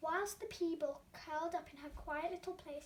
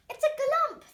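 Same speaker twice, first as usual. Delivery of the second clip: higher, loud excited shout; crowd shout; 8 semitones higher, 12 dB louder than usual. Acted. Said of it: "they all shouted".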